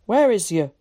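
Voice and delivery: loud country call; mildly anxious loud call. Acted. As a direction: shout the question into the dark. Tom calls out in the dark.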